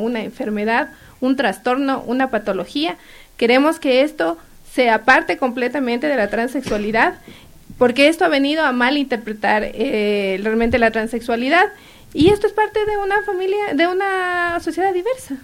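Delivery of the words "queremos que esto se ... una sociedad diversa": excited. Real, not acted. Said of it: "ya te emocionaste".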